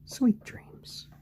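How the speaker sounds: high airy whispered goodnight. Real, not acted. Bidding the sleepy chick goodnight, whispered. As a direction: whisper it like a lullaby.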